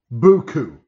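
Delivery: Buku said boo-koo with a hard b, mimicking Colonel Potter; Potter's mispronunciation. Quoting Colonel Potter's mangled French, Buku said boo-koo. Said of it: "Rather than boku".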